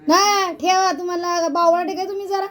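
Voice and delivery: loud, high, fast scolding; scolding husband. Real, not acted. (नवऱ्याला मटकी न ठेवल्याबद्दल रागाने ओरडून रागावणे)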